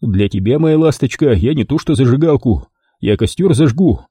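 mild courtly charm; галантно; gallant promise. Acted. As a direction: flirt with her. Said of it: "галантно пообещал я".

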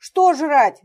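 high loud quavering question; trembling voice. Acted. Петя asks in terror what he must eat, trembling. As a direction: ask in terror. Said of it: "дрожащим голосом спросил".

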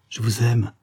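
lightly voiced young woman in love; mildly sighing, lovestruck reply; sighed declaration. A narrator's reading. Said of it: "soupira-t-elle".

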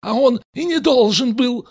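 high, loud barked reply; a man snaps back loudly at Esther; barked retort. A narrator's reading. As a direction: bark it out at her. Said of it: "и гаркнул".

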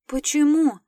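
high, loud amazed question; surprised, smiling. A narrator's reading. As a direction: ask in smiling surprise, pitch leaping up. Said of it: "удивлённо улыбнулась я".

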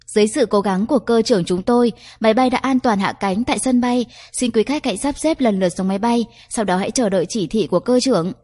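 happy cabin announcement voice; lightly voiced flight attendant over speaker. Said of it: "Giọng tiếp viên trưởng vui sướng qua loa phát thanh thông báo".

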